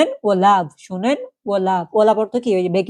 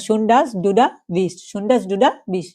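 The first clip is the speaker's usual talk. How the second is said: slow German demo; much slower than usual. Shown as a demonstration. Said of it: "তখন এটা আমরা কি বলতে পারি?".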